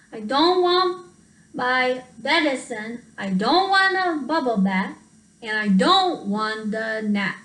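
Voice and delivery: whiny refusal. Acted. Sick child whining refusals.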